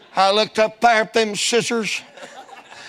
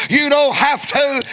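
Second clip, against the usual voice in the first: shouted repeat; 4 semitones higher than usual. Real, not acted.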